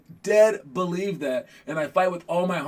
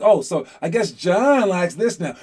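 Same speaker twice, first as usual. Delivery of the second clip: slow, teasing, a bit louder sarcastic jab; mocking mom; 2 semitones higher, 4 dB louder, slower than usual. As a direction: imitate mom poking fun. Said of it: "She would just make fun of me".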